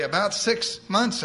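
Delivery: slow, lifted answer with a hint of triumph; almost triumphant. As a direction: announce it like good news. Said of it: "answered almost triumphantly".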